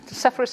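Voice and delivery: Sepphoris said the English way; anglicised Sepphoris, stressed on the first syllable; English pronunciation. Shown as a demonstration. Speaker explaining the place name to the class, Sepphoris in English pronunciation. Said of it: "is the English pronunciation".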